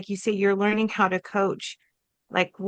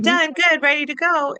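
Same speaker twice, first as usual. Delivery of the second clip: higher and louder, perky and recharged; bright and ready; 7 semitones higher, 5 dB louder than usual. Retold or imitated. Telling her husband she's recovered, excited. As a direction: bounce back full of energy. Retold cheerful next morning.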